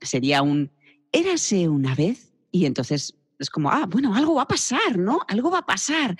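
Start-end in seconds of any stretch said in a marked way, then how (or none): 1.1-2.3 higher, slower, hopeful opening; eager storytelling. Shown as a demonstration. Teacher showing how to start a children's story. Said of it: "Hay que empezar en agudo y con ilusión". 3.7-6.2 much higher, expectant tone; hint that something is about to happen; suspenseful high. Shown as a demonstration. Teacher demonstrating the "something will happen" tone. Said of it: "Ese es el tono de".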